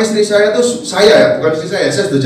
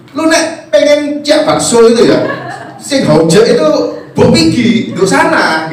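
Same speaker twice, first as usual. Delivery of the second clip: higher, slow Surabaya Javanese with a laugh; imitating mother's Surabaya dialect; 5 semitones higher, slower than usual. Preacher mimics his mother giving directions, high and slow. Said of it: "Nah, kamu kan gini".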